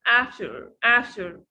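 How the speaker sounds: "after" with the t barely touched; light T. Shown as a demonstration. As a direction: soften the t in "after", falling. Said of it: "بننطقها خفيفة شوية".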